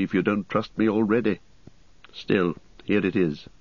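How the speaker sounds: lightly voiced grim ranger; a hint of a stern, wary ranger; Strider, grim.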